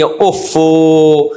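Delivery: very drawn-out, monotone mock sigh; imitating a hammed-up 'oops'; put-on dismay. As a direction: stretch it out in theatrical regret. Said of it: "اوفو کر کے acting نہ کریں".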